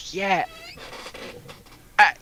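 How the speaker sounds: ordinary talk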